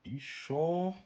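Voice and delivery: quick skeptical jab; mock-doubtful check; sarcastic question. Real, not acted. Sarcastic follow-up.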